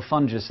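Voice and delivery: "fungus" with a soft g, like "fun-jus"; soft-g mispronunciation. Shown as a demonstration. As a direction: playfully say "fungus" with a j sound. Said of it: "is also fun to say".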